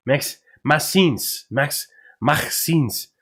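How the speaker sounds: "Maxence" said slow with a throaty /x/, "maxsĩns"; French-ish pronunciation. Shown as a demonstration. Streamer practicing the player's French first name. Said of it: "I just gotta spit into it".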